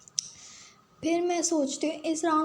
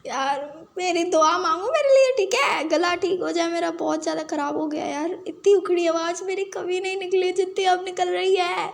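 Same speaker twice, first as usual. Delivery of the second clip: crying; 3 semitones higher, 3 dB louder than usual. Real, not acted. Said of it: "पता नहीं मैं रो क्यों रही हूँ".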